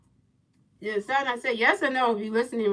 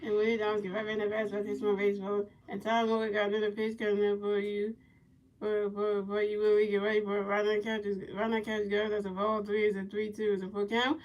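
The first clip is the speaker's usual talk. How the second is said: play-by-play commentary; 6 dB quieter than usual. Pretend. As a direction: call each pitch softly in a level voice. Returns to play-by-play.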